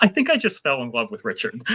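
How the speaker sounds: normal talking voice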